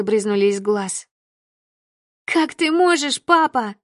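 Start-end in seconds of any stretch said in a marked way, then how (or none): 2.2-3.8 higher, louder anguished cry. Acted. Slapped daughter crying out at her father. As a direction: cry it out at your father, hurt. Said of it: "закричала я".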